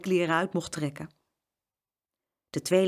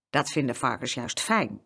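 farmer voice; 5 semitones lower than usual. Acted. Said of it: "zei boer Heineken".

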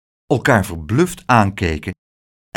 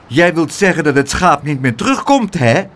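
louder accusing voice; calling out; 2 semitones higher, 3 dB louder than usual. Acted. Aunt pinches Pluk's ear and calls out, accusing. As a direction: call him out on it. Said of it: "riep ze".

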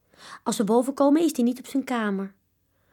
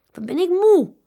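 sighing; 9 semitones higher, 8 dB louder than usual. A narrator's reading. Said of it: "zucht papa Vis".

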